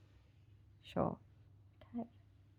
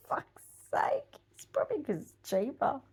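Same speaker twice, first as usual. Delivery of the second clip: whispered through a laugh, softer; whispered aside; 8 dB quieter than usual. Real, not acted. Joking to the viewers about the cheap carrots, whispered. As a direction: breathe it out as a giggling aside.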